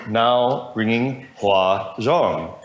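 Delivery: very slow automated announcement; drawn-out robotic phone voice; computerized voice. Retold or imitated. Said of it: "the computerized voice would say".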